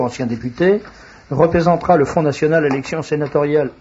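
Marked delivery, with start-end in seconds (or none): 2.6-3.7 fast, rushed announcement; trop rapide. Real, not acted. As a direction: rattle it off too quickly. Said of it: "Faut que je parle plus lentement". (débit trop rapide)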